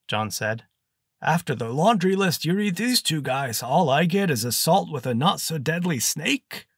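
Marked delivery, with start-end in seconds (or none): 1.2-6.7 put-on higher, strained old wizard complaining; a put-out old snake mage griping; old mage's voice. Old mage scoffs at his charge, higher and strained.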